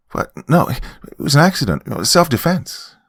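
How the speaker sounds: high, panicked protest; pleading high-pitched self-defence, on the verge of crying; stammering, near tears. A narrator's reading. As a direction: stammer out a desperate denial, pitch jumping up. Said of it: "I stammered as I began to cry".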